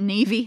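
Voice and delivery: Niamey said as NEE-vee; Niamey in two syllables, like Irish Niamh plus ee; deliberate mispronunciation. Shown as a demonstration. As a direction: misread Niamey as "neevee". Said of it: "we just pronounce it".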